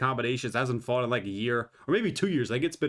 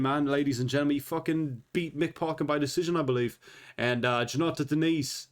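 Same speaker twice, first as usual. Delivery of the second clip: put-on British accent. Fight picks read as a half-hearted British pundit in a British accent. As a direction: play a casual British pundit, mostly in a light British accent. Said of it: "stuck with that British accent for, like, a minute there".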